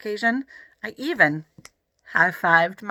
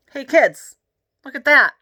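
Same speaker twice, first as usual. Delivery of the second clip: enthusiastic dad, higher and louder; excited dad; 7 semitones higher, 7 dB louder than usual. A narrator's reading. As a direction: call the kids over, thrilled. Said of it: "my dad said".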